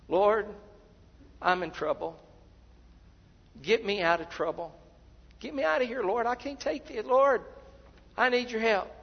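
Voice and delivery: imitated panicky prayer; desperate pleading. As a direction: beg for rescue, building in urgency. Mimics desperate wish-list prayer.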